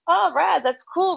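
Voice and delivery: put-on high-pitched, impressed teen reply; impressed reaction. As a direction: react as if pleasantly wowed. Teenager reacting to celebrity news.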